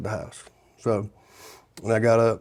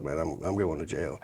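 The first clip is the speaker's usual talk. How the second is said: much lower and softer, defeated; resigned whisper-quiet; 6 semitones lower, 9 dB quieter than usual. Retold or imitated. To his counselor in court, a low defeated murmur. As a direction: mutter it under your breath, sure of doom.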